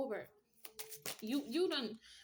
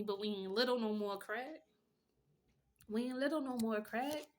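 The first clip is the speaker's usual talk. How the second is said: taunting callout. Pretend. Calling out an old bully.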